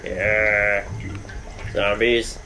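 normal talking voice

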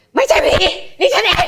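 high, loud mock yell; hammed-up furious shriek; shout. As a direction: yell back that it is just you. Her furious retort re-enacted.

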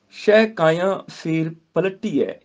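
slow measured Gurbani recitation. Shown as a demonstration. Teacher recites the verse to students, slow. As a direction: chant each word with pauses.

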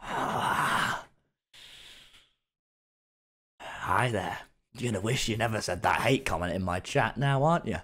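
hushed menacing villain greeting; creepy villain. Pretend. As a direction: lure them in, then threaten. Threatening hate commenter, creepy.

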